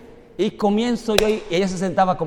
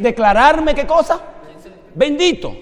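higher, louder, calling out Bendito; rising shout; 7 semitones higher, 6 dB louder than usual. Real, not acted. Preacher calling the congregation to answer, loud and high. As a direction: drive the word Bendito home. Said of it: "preacher calling on congregation".

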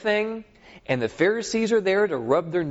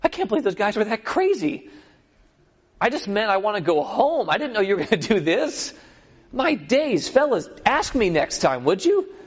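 exasperated David; 3 semitones higher than usual. Retold or imitated. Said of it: "David's like".

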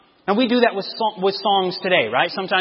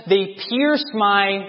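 slow prompt; much slower than usual. Shown as a demonstration.

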